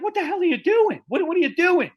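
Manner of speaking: retold yell. Showrunner yelling at him.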